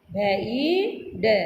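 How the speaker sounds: each sound laid out slowly; slow spelling out. Shown as a demonstration. Teacher slowly sounding out letters for children.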